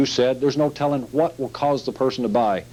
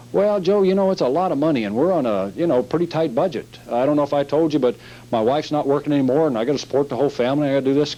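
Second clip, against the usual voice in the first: worried customer; 2 semitones higher than usual. Acted. Customer telling salesman Joe about tight budget, lightly worried voice. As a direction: play a hard-up customer pleading budget.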